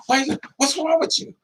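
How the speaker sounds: high, incredulous mock whine; imitating someone high, acting wronged; mock addict voice. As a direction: play the addict acting innocent.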